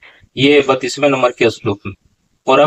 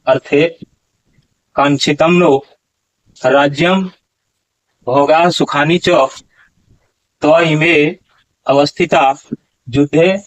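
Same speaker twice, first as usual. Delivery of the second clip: slow, measured Sanskrit chanting; slow Sanskrit verse recitation; slow shloka recitation. Shown as a demonstration. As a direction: recite each word of the verse carefully, pausing between phrases. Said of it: "पहले आप श्लोक का उच्चारण कीजिए".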